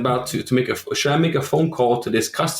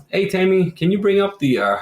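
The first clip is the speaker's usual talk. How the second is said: calling out; 6 semitones higher than usual. Retold or imitated. Contractor calls out to Tammy.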